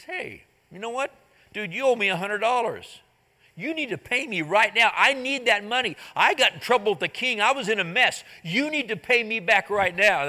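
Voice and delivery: pressing a friend for a hundred dollars; mild anger. Retold or imitated. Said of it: "The guy gets angry".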